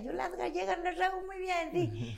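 lightly voiced pedantic lecturing. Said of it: "yo fui bien pedante". (tono pedante, un poco más agudo)

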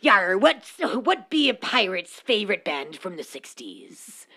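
pirate drifting into Irish; hammy pirate telling a joke. Pretend. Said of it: "my pirate turns to Irish".

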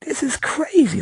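high, slow incredulous; mock disbelief. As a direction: drag it out in disbelief. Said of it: "you be like".

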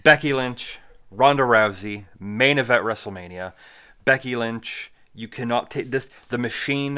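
loud, emphatic rant. Real, not acted. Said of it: "I get ranty sometimes".

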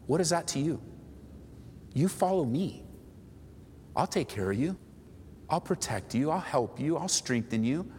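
gentle, reassuring voice of Jesus; tender but lightly acted. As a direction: ease off and reassure, unhurried between phrases. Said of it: "Jesus comes very gently and says".

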